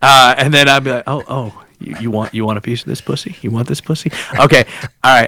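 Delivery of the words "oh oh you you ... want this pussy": hushed, much softer teasing taunt; mock come-on. Host answering the cowboy, a hushed mock come-on.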